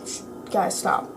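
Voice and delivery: hushed, whispered plea to stop; holding the anger in, barely voiced; restrained. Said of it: "controlled myself".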